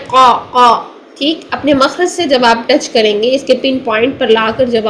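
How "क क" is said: क from the back of the throat, slow; correct qaf. Shown as a demonstration. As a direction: land क cleanly at the pin point. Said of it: "आपने इसको अदा करना है". (क सही मखरज से)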